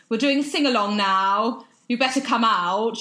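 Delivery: loud, bright nursery-teacher call; rally the hungover helper loudly; mock nursery teacher summoning everyone.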